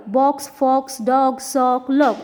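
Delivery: short O in "box, fox, dog, sock, log"; short vowel demo. Shown as a demonstration. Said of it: "these words we will speak in short sound". ("box, fox, dog, sock, log" में छोटा ओ)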